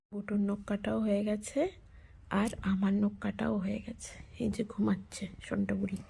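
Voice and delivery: barely voiced, careful not to wake anyone; whispering. Real, not acted. Mother reports nails are cut while child sleeps, whispered. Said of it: "খুব আস্তে আস্তে কথা বলছি".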